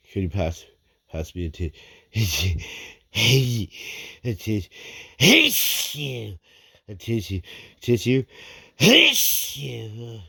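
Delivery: stuffy snotty voice between sneezes; snotty crying. Real, not acted. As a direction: ask for a tissue through sniffles. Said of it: "I have to blow my nose".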